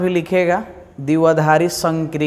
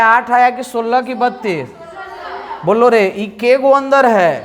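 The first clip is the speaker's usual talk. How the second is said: lively classroom questioning; 3 semitones higher than usual. Acted. Quizzing class loudly.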